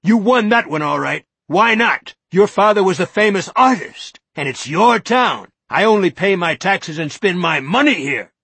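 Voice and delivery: high, loud, ranting accusation; rising courtroom tirade, high and loud; courtroom shout. Acted. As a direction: hector them like a lawyer in court. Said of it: "His voice began to rise toward a courtroom shout".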